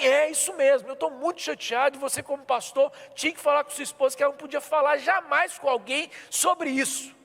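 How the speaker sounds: a hint of a crying, nervous man; upset man. Stranger complaining to the pastor, lightly voiced upset. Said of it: "ele tava chorando, nervoso".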